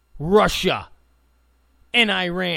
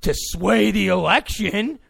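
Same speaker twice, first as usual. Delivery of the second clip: mocking the left; 3 dB louder than usual. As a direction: play a smug opponent admitting a little, laughing it off. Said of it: "when you hear the left go".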